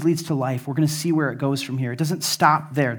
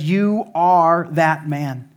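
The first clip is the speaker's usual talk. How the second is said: slow accusing prophet; much slower than usual. Retold or imitated. Nathan confronts David.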